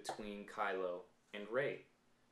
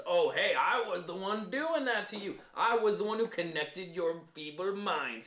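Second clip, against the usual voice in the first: smug Snoke; 6 semitones higher, 5 dB louder than usual. Retold or imitated. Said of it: "Snoke confirms".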